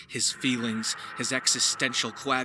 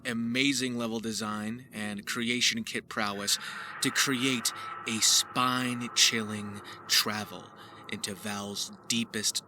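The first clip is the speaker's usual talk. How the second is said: trailer narration. Acted. Narrating a mod trailer to viewers, hushed and ominous.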